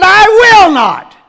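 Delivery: I will not, high and loud, slowed; defiant cry with will hit hard; defiant stress on will. Retold or imitated. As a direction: slam the word will. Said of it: "He said".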